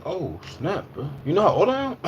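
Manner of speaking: high playful surprise; high put-on voice, amused; mock surprise. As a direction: ham up the shock at their age. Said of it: "I'm like".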